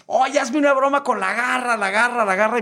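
high, excited plea; eager listeners' request. Retold or imitated. Radio listeners phone to request La Garra, high eager voice.

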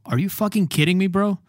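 teacher acting out an angry complaint to a friend; mock outrage. Shown as a demonstration. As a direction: sound fed up with a friend who owes you. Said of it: "esta, poco grosera".

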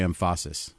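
"emphasis" as em-FAH-sis; jokey mispronunciation. Shown as a demonstration. Guest playfully corrects host on where accents go, "emphasis" jokily said em-FAH-sis. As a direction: stress the middle of "emphasis" with an open ah. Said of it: "We try to say".

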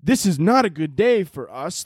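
stilted, emotionless mock overdub; monotone dubbing. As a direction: read the drama with no feeling. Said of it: "it's just so monotone".

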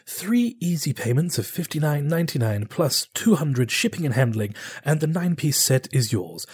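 lightly voiced TV pitchman; home shopping host. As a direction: sell the knife set like late-night TV. Closing sales pitch.

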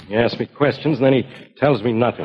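mumbled complaint to himself; grumbling mumble. Acted. Bill complains about Drew's secrecy, mumbling grumpily. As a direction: mumble your grievance under your breath. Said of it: "Oh, stop mumbling".

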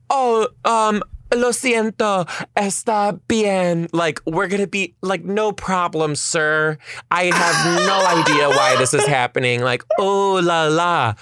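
high, sing-song fake obliviousness; hammed-up innocence. Girlfriend pretends not to expect a proposal, hammed-up innocence. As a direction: overact being sweetly clueless, pitched well up. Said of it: "should have won my fucking Oscar".

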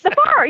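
"bar" said as the Southern one-syllable "far" for fire. Shown as a demonstration. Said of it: "It's not fire, it's fur".

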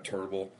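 "terrible" said as "turrible"; U-sound vowel. Shown as a demonstration. Host echoing the U's in an impression, "terrible" as "turrible". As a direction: say "terrible" with an "ur" in the first syllable. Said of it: "Speaking of saying the, the U's like that".

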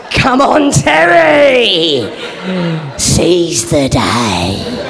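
loud, drawn-out hammed-up call to action, dropping low at the end; mock-heroic rallying cry. Engineer urging Terry to abandon planning, hammed-up rousing shout. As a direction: urge a mate on like a film hero.

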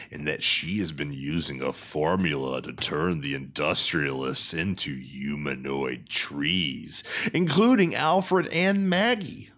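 dramatic announcer narration, rising and dropping in pitch; synopsis read. Acted. Host recapping the episode's plot, dramatic announcer. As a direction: read the plot like a hammed-up trailer.

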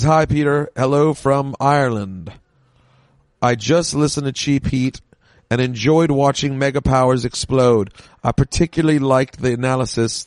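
put-on a weak, half-hearted Irish accent; reading an email in a poor Irish accent; bad Irish accent. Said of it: "this is a bad Irish accent".

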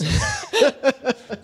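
high, slow, laughing squeal. Real, not acted. After the accent bit, laughing it off. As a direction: laugh the words out.

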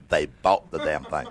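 slow, heavy They bought the damn thing; emphasized slowly. Shown as a demonstration. Comic emphasizing the gym purchase, slow stressed "bought". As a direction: drag it out, punching "bought". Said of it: "Let me emphasize that".

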